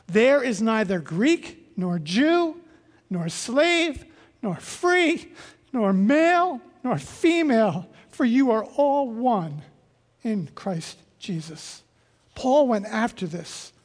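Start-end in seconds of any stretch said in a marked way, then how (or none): 0.1-11.8 slow, weighty reading of the verse; scripture reading. Retold or imitated. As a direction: read it out like scripture, building then fading. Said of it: "when he says this".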